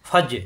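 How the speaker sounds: ফাজে with a bounced জ; qalqalah bounce. Shown as a demonstration. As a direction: push off the জ in ফাজে. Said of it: "এখানে বাড়ি খাবে".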